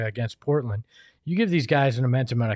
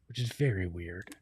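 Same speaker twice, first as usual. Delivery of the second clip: whispering; 7 semitones lower, 10 dB quieter than usual. Real, not acted. Aside about odd team decision.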